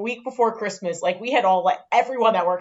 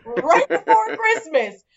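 drawn-out, higher mock boss voice; slow mock boss; 6 semitones higher, 4 dB louder, slower than usual. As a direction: stretch it out like the smug boss. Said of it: "And he was like".

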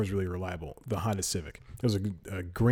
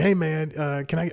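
jovial hey man; 5 semitones higher than usual. Retold or imitated. Guy outside the store stops the narrator, cheery and higher. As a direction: call out brightly like a friendly stranger. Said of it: "the most jovial person".

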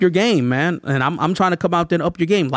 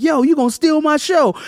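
lightly voiced rapper, pitched up high; imitated rapper; 11 semitones higher than usual. Storyteller mimics the rapper during his show intro, high imitation.

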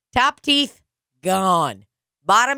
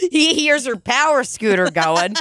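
laughing; 3 semitones higher than usual. Real, not acted. Laughing at her own joke.

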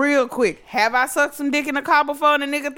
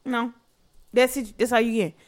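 soft, low imitation of his murmur; mock seductive murmur; hushed come-on; 3 semitones lower, 7 dB quieter than usual. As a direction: coax quietly like a guy in a car.

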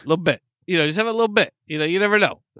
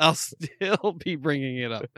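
slow, softer, stretched-out delivery; drawn-out repeat; 7 dB quieter, slower than usual. Real, not acted. Host teasing co-host about the party, drawn-out repeat. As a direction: draw the promise out slowly. Repeats own boast slowly, hammed.

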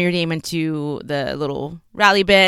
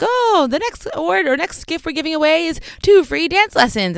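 announcer voice; 11 semitones higher than usual. Retold or imitated. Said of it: "they're like".

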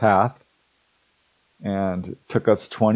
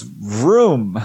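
engine vroom; 3 dB louder than usual. Retold or imitated. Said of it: "It goes".

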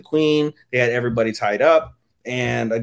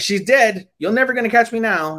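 villain taunt; 9 semitones higher, 4 dB louder than usual. Retold or imitated. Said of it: "they're like".

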